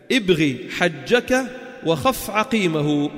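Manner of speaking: slow, measured recital of a mnemonic; mnemonic recitation. Shown as a demonstration. Teacher giving students the memory phrase for moon letters, slow recitation. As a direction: space out the words in verse rhythm.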